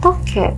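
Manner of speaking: "Toke" called out high with a falling end, like the gecko. Retold or imitated. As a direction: imitate the gecko's cry. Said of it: "bunyinya kayak ngegerem dulu, baru toke". (menirukan bunyi tokek, nada tinggi turun)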